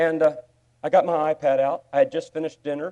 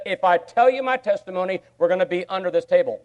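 louder, higher retelling of the friend; retold friend; 5 semitones higher, 6 dB louder than usual. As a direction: give his words with punch. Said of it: "what I heard when he said".

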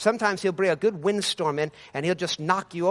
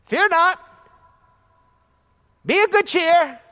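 Jesus commanding; 7 semitones higher, 4 dB louder than usual. Acted. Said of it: "Jesus just saying a couple things".

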